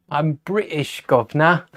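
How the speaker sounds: hammed-up Cockney British, tacking on governor; mock British accent. Vlogger playing up his Britishness for viewers, in a mock Cockney accent. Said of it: "I am from the U K".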